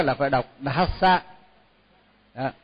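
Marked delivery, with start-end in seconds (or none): 0.6-1.2 "Dhassa" with a clear aspirated dh at the start; correct pronunciation. Shown as a demonstration. Teacher showing students the correct "Dhassa". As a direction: say "Dhassa" with the breathy dh sounded, not "Đà Sa". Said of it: "là phải đọc đúng á".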